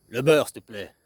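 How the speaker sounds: "Le beurre, s'il te plaît." said kindly with a falling tune; friendly ask. Shown as a demonstration. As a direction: ask nicely for the butter. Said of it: "une fois, t'étais sympathique".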